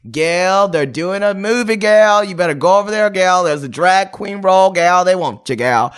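high, loud mock-Australian voice; hammed-up Australian, punching every "girl"; Australian accent. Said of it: "That's my Australian accent".

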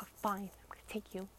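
breathy whisper, quick and hushed. Retold or imitated. Friend grudgingly agrees to take her, in a whisper. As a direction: whisper the grudging offer fast.

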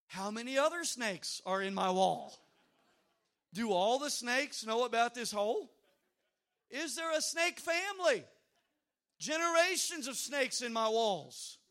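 loud, rising panicked questions; freaked-out panic. Retold or imitated. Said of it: "I'm freaking out".

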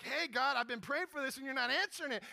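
loud, high, rapid complaint; upset prayer. Retold or imitated. Elijah complains of unanswered prayer, upset and loud. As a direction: protest to God with heated emotion. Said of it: "He got upset. He had emotion in his prayer".

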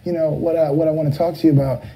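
light voice imitating a famous singer. Retold or imitated. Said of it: "making that voice that he wasn't making".

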